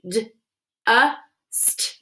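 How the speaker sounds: "D, uh, st" split into separate sounds; sounding out. Shown as a demonstration. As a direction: tap out "D, uh, st" slowly. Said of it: "Pound it".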